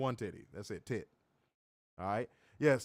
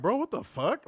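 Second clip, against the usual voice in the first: high, incredulous mock outburst; mock disbelief; 8 semitones higher than usual. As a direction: act out his shock. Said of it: "He was like".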